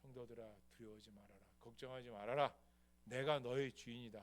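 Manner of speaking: calm their fear gently; God comforting believers. Acted. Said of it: "우리에게 보여주는 거예요".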